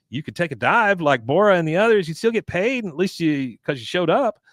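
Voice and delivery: put-on kid Bobby voice. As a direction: suggest it brightly like a kid. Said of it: "Bobby says".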